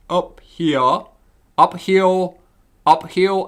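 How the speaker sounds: lightly cartoonish, R's rounded toward W. Demonstrating how he can't pronounce R's, cartoon voice. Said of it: "can't pronounce R's".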